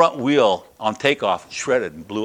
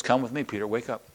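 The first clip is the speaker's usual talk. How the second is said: hushed angel; 8 dB quieter than usual. Retold or imitated. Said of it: "the angel says".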